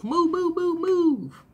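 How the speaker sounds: high, loud urging; urgent move. Acted. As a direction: push them to go now.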